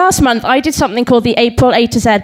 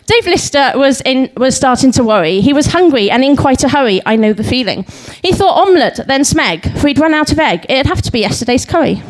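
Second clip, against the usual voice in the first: lilting comic verse reading; light, rhythmic stage recital; limerick recital; 2 semitones higher than usual. Acted. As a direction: bounce through the limerick, landing the rhymes.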